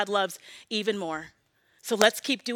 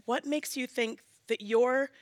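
still small voice; 7 dB quieter than usual. Retold or imitated. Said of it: "in a still small voice".

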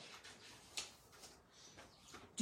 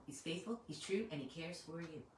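soft, lilting recitation; recited poem; 2 semitones lower, 10 dB quieter than usual. Real, not acted. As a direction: say it as a little poem, gently. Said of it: "Hey, it's like a poem".

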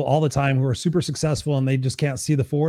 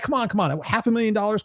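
playful coaxing; 7 semitones higher than usual. Acted. Coaxing audience to play along.

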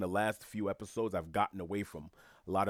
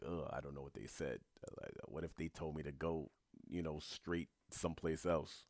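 softer, lower worried muttering to himself; anxious dread; 4 semitones lower, 8 dB quieter than usual. Retold or imitated. Dreading a former friend's reply, soft and lower. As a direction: voice the fear of opening the reply.

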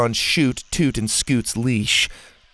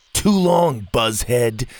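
snapping; 3 dB louder, slower than usual. Acted. Ash snaps at Bo after being stuck in the pit, irritated snap. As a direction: bite the words off at him. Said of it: "Ash snapped".

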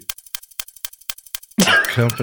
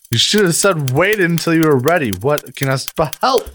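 higher, panicky complaint; flustered protest; 5 semitones higher than usual. Real, not acted. Contestant stumped by a timed word, flustered. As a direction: plead as the clock starts.

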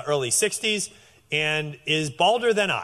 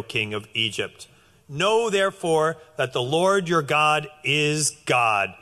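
scripture reading. Acted. Preacher reading scripture to the congregation, measured and solemn. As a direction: read the passage with weight. Reads Deuteronomy passage aloud.

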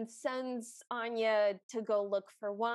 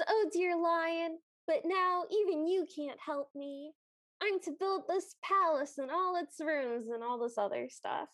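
put-on girl greeting lion; 4 semitones higher than usual. Girl runs to hug the white lion, lightly acted plea. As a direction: voice her plea with a higher, stretched opening. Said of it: "she's very happy, and she runs to him".

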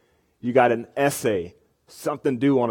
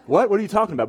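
mock surprise; 7 semitones higher, faster than usual. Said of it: "I was like".

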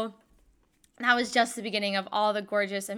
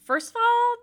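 mock outrage at the time; 4 dB louder, slower than usual. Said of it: "And I'm like".

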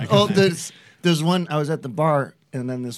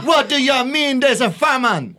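mock Irish accent; 6 semitones higher than usual.

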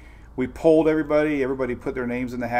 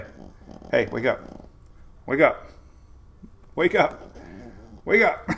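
rising coaxing. Real, not acted. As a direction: coax him awake, climbing up. Coaxing puppy awake.

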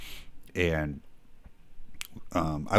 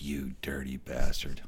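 low, slow mock glare; 5 semitones lower, 4 dB quieter, slower than usual. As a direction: lower and slower, a silent accusing look. Friends' look after the fart.

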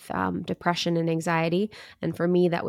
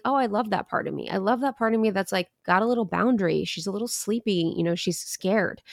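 tender self-love. Shown as a demonstration. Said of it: "being like".

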